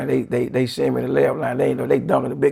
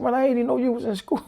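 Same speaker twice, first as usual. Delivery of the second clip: higher, quicker, through laughter; retold line broken by laughter; laughing quote; 11 semitones higher, faster than usual. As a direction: laugh while saying it. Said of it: "He said".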